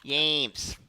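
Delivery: put-on slow drawn-out Swedish accent. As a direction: stretch the names in a Swedish accent. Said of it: "you have to do the voice".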